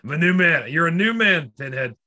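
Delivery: mock self-pep talk.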